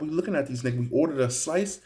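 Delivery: usual speaking voice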